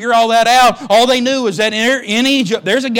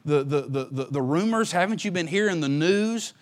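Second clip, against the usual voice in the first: lightly softer father, as if sharing rumors; a hint of hushed telling; 4 semitones lower, 10 dB quieter than usual. Jacob softly tells his sons of the rumors from Egypt. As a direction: lean in and tell them the news quietly. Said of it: "Jacob said".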